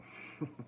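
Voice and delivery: short breathy chuckle; a brief, soft laugh to oneself. Real, not acted. Chuckles at own anecdote.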